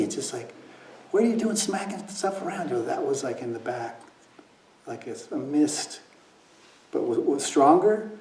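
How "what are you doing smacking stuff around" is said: imitated scolding. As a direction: scold him like a fed-up father. Habitual scolding voice in his head.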